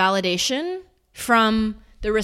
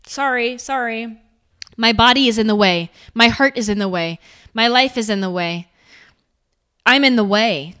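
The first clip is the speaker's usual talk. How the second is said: apologetic; 5 dB louder than usual. Shown as a demonstration. Acting out over-apologizing.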